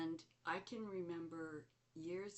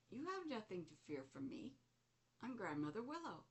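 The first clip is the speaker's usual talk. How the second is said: Grandmother Spider; 5 semitones higher than usual. Retold or imitated. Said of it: "it was a female voice".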